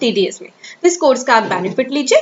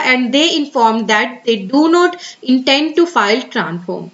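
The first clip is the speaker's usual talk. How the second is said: very slow, careful reading of an official notice; much slower than usual. Acted. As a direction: read the advisory word by word. Continues reading the advisory. (धीमे, सावधानी से सरकारी सूचना पढ़ना)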